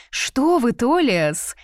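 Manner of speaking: high, loud, mildly reproachful brush-off; light reproach. A narrator's reading. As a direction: wave it off with a gentle scolding. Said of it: "отмахнулась она с лёгким упрёком". (с лёгким упрёком)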